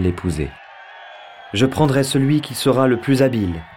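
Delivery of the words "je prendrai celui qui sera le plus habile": higher, proud queen voice; Penelope's voice. Acted. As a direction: announce it like a queen. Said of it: "dit-elle". (voix de reine fière, plus aiguë)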